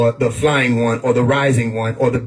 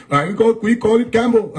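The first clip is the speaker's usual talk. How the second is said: high, put-on Arab accent, hammed-up; a playful, exaggerated Arab accent on "camel"; mock Arab accent; 9 semitones higher than usual. Mocking how the ancient Arabs named the craft, in a put-on Arab accent. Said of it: "I don't know y'all accent yet of Arabs".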